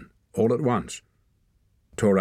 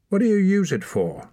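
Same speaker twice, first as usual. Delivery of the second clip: high, louder demand; sharp questioning; 13 semitones higher, 5 dB louder than usual. A narrator's reading. Girl questions boy about his whistle, sharply questioning. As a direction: press for an answer.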